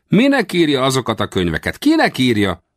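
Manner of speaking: high, incredulous grilling; baffled questioning. Acted. Westerner asking the writer who his books are for, high and baffled. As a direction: press for an answer in a high, puzzled voice.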